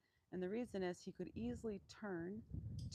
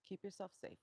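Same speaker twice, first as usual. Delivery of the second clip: voicing the donkey; 5 semitones higher than usual.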